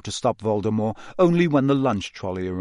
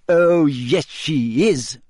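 a gleeful, louder yes; triumphant delight at being right; lightly voiced girl, happy and sure; happily; 4 semitones higher, 5 dB louder, much slower than usual. A narrator's reading. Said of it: "said Hermione happily".

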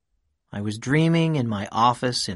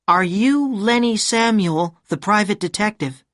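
cool questioning woman; 10 semitones higher, 4 dB louder than usual. A narrator's reading. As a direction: ask coolly, sizing him up. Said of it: "she asked".

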